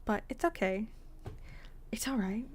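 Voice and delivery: breathy whisper to herself. Real, not acted. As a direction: whisper it, reassuring yourself. Soft self-reassurance.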